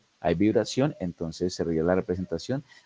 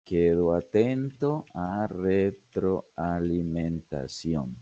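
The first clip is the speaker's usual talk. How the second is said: slow dictation; much slower than usual. Shown as a demonstration. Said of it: "va a decir".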